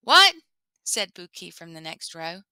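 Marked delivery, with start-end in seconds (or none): 0.0-0.3 sharp high startled question; jolted, asking what; surprised what. Acted. Buki startled from next row.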